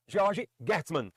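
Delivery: "George Gertzmann" spelled out very slowly, Portuguese-style; own pronunciation. Shown as a demonstration. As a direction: drag out "George Gertzmann" syllable by syllable. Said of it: "no meu modo de falar". ("George Gertzmann" pronunciado bem devagar, à brasileira)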